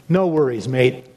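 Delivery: lightly put-on Australian accent, a playful wink; a hint of Aussie, cheery and easy; heavenly Australian accent. Preacher reassuring a worried friend, mock Australian accent. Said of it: "in your best heavenly accent".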